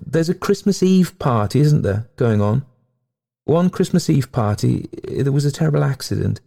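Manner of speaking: high-voiced ghost telling her sorrow; plaintive ghost lady. A narrator's reading. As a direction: recount it high, with dramatic feeling. Ghost recalls the accident.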